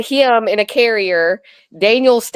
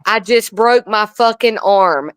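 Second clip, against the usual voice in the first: deadpan. Retold or imitated. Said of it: "looks at the camera and says".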